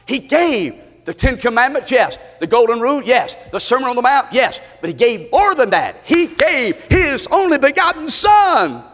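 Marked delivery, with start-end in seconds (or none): 4.8-8.8 impassioned preaching. Real, not acted. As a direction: build to a ringing climax. Preaching climax.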